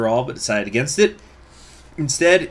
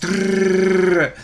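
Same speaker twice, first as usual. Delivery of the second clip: imitated gunfire; 8 semitones higher, 6 dB louder than usual. Imitating gunfire in film montage.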